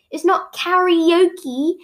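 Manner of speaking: slow, stressed karaoke; Japanese pronunciation. Shown as a demonstration. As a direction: karaoke said slowly like lala okay. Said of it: "it actually rhymes with Lala okay".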